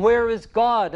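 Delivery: high and loud, calling again; crying out. A narrator's reading. Madman still calling to the mocking crowd. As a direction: keep crying out the question. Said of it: "And he kept crying".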